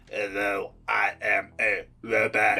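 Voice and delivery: put-on slow, low robot voice with a French accent; hammed-up robot with a weirdly French lilt. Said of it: "Get you one of them robot voices".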